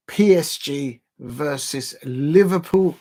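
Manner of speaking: slow, badly faked Scouse; attempted Scouse accent. Fan announcing the big match, attempted Scouse accent. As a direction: have a clumsy go at a Scouse accent. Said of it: "I can't do an accent".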